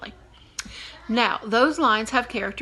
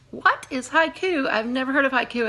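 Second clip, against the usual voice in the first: puzzled student; 3 semitones higher than usual. Retold or imitated. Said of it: "some of you are saying".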